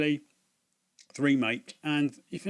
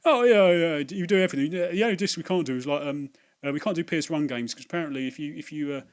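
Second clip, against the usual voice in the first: high, loud mocking voice of a smug clerk; hammed-up patronising young shop assistant; know-it-all shop kid; 3 semitones higher, 6 dB louder than usual. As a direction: lord it over the customer, pitched up. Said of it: "he goes".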